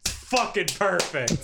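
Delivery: mock-satisfied film director, drawn out; Martin Scorsese. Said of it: "and Scorsese's like".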